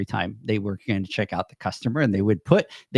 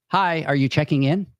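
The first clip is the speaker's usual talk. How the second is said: robotic desk greeting; 3 semitones higher than usual. Retold or imitated. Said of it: "and it was robotic".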